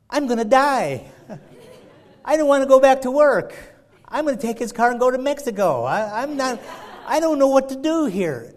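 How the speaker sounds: hammed-up dread of the boss; retold panic.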